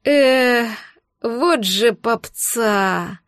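very slow, groaning lament; mournful groan. A narrator's reading. Arch moans over the poor bandits, very slow. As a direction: moan it out in mock grief. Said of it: "горестно застонал Арч".

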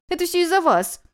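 high, loud accusing cry; shouting accusation. A narrator's reading. Guest shouts accusations at the sect. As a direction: fling the blame at them.

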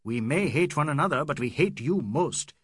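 high, loud raging tirade; in an awful rage; angry cry. Acted. Aziz raging at the English, high and loud. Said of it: "and cried".

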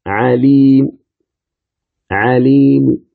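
عليم ending in a faint, clipped trace of u; عليم said with a whispered third of the final vowel; عليم with the last u barely voiced; stop with rawm. Shown as a demonstration. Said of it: "فتقول".

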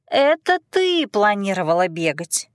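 whiny. Acted. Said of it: "заныла Китти".

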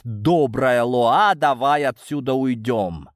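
whiny, drawn-out plea; whining. Acted. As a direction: whine it like a sulky boy. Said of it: "конючить".

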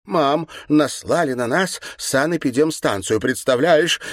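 on the edge of crying; near tears. A narrator's reading. Daughter complaining to her mother, near tears. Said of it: "Чуть не рыдая".

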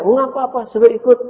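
put-on high, loud lady's voice asking the boy; rich mother asking. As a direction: lean out of the car and ask.

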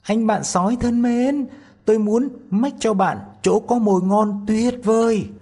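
high, loud friendly tiny voice; calling out to the wolf. A narrator's reading. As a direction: call out from the wolf's belly, coaxing. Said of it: "Tí Hon nói vọng ra".

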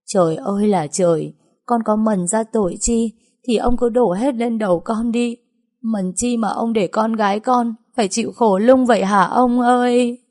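a mother begging the gods through her grief; lightly voiced mournful wail, rising at the end; grief-stricken wailing. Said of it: "dì Nguyệt vẫn còn khóc ngất lên".

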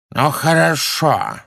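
slow, reluctant agreeing; wary agreement. A narrator's reading. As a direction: give in warily. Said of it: "согласился ... с некоторой опаской". (неохотное согласие)

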